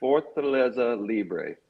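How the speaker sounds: Fortaleza Libre slow, each syllable clear, Spanish Libre; owner's pronunciation. Shown as a demonstration. Owner demonstrating his brand name, slow and clear. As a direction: say Fortaleza Libre slowly and correctly. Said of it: "let him say it".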